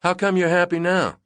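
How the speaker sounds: high, loud shouted question; yelled question. A narrator's reading. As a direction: shout it over the engines. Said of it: "she yelled".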